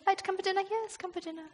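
a quiet, offhand British invitation; understated British politeness; polite British. Retold or imitated. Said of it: "we're quite British".

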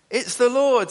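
high, loud cry of recognition; high, loud excited exclamation. Retold or imitated. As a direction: exclaim it as it dawns on you. John recognising Jesus, retold.

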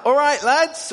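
high, loud friendly hail; high, loud casual greeting shout; calling out. Retold or imitated. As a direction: call out cheerily to the fishermen. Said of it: "He calls out".

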